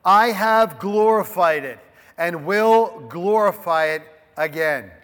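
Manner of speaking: loud, booming divine proclamation; a hint of a thundering heavenly voice. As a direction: proclaim it like God from the sky. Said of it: "a voice came from heaven".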